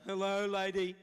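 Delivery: high, goofy mock tourist; silly foreigner's greeting. How bonjour madame sounds to the French, silly high voice. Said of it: "To them, it probably sounds like".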